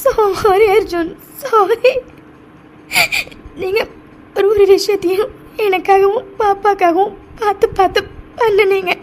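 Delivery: halting, tearful remorse; crying. Acted. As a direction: apologise haltingly through tears. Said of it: "நீ இப்படி அழுறது". (அழுதபடி தடுமாறி மன்னிப்புக் கேட்கும் குரல்)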